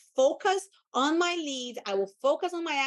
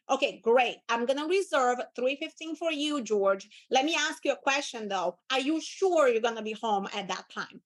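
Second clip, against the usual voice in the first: confident caller. Shown as a demonstration. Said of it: "No, it's like".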